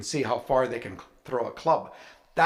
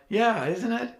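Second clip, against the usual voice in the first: smug agreement; 8 semitones higher than usual. Retold or imitated. His own smug reply.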